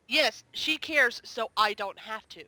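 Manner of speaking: quoting the Doctor. Retold or imitated. Fan retelling the Doctor's favourite line, slow quoted retort. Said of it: "And then he says".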